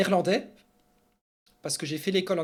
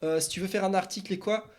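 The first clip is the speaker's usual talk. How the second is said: higher, eager hail of an imitated tipster; raised-voice mock DM; casual insider tipster; 4 semitones higher, 4 dB louder than usual. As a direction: imitate someone casually pitching a leak. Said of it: "Ils D M Shippy Sport, ils sont là".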